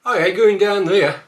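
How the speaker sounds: Black Country accent, loud. Shown as a demonstration. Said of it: "A few more".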